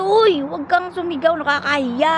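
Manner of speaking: high-pitched retold plea to stop; embarrassed protest. She tells her shouting suitor to stop, embarrassed protest. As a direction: act out a flustered telling-off.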